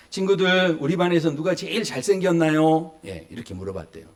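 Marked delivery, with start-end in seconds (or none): 0.1-3.0 teacher asking class. Retold or imitated. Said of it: "선생님이 아이들한테 물어봤대요".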